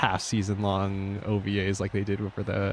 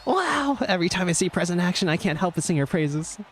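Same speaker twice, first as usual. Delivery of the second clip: excited race call. Acted. Voicing the crowd watching Prez win, high excited cheer. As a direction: shout it like the finish line just blew you away. Voices race commentary and onlooker.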